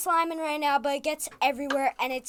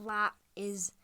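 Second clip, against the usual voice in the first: whisper; 5 semitones lower, 6 dB quieter, slower than usual. Real, not acted. Denying the accent jab.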